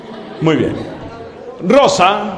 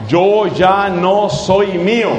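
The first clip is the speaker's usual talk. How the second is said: slow repeat; slower than usual. Shown as a demonstration. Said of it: "Son cinco palabras".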